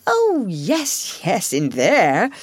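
brushing it off, mildly impatient; impatient Toad. Acted. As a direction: Toad waves off the badger. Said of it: "said Toad impatiently".

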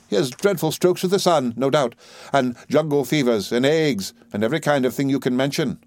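put-on high, fluttery old lady voice; fussy old lady. A narrator's reading. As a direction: list the ailments with relish. Old soldier mother voiced.

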